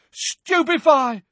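high, loud spell shout. A narrator's reading. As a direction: fire the spell with a yell. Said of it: "Neville shouted again".

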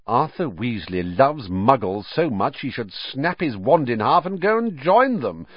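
spoiled schoolboy mocking a rival's father; scornful. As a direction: pour contempt on the Weasleys. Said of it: "said Malfoy scornfully".

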